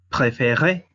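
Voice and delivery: "préféré" said slowly with both é closed and the last é stressed; slow French model. Shown as a demonstration. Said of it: "la sílaba tónica es E". ("préféré" despacio, con la é final cerrada y acentuada)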